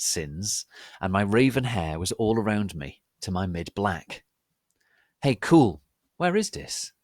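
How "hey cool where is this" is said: lightly voiced emo boy, louder and higher; a hint of a bored emo kid. A narrator's reading. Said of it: "he asked in an emo voice".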